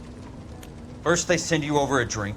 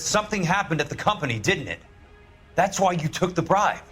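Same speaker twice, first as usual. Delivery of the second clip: high-pitched, forceful accusation; accusing; 6 semitones higher than usual. Acted. Accusing Curtis of taking a bribe, heated. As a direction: hammer the charge home, pitch raised.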